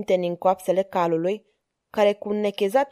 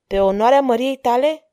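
louder question with rising surprise; surprised; 3 semitones higher, 6 dB louder than usual. A narrator's reading. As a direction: ask it taken aback, voice lifted. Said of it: "întrebă Maria Tereza surprinsă".

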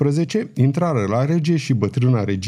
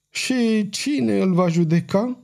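bitter question; 8 semitones higher, slower than usual. A narrator's reading. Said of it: "întrebă cu amărăciune regele".

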